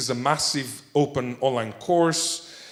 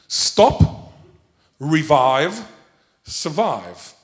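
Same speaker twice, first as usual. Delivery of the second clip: emphatic slogan; 4 dB louder, much slower than usual. Acted. Emphatic slogan ending lecture.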